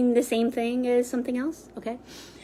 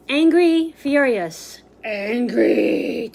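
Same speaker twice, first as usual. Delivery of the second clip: angry; much slower than usual. Shown as a demonstration. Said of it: "Bring it up".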